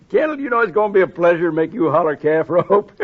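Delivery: gloating, laughing as you speak; laughing taunt. Acted. Turkey mocks Kendall before the showdown, laughing taunt. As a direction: taunt him through a chuckle.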